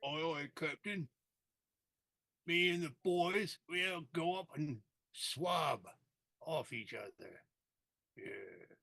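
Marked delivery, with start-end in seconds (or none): 0.1-7.4 pirate voice. Acted. Pirate crew talk to captain.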